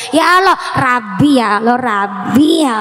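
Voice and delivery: put-on childlike whine pleading to God; whining prayer. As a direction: beg like a child tugging a sleeve. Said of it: "tapi sambil merengek".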